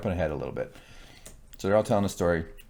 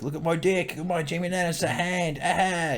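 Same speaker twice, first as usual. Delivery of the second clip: mock drunken brag; 8 semitones higher than usual. Voicing a drunk boasting peasant.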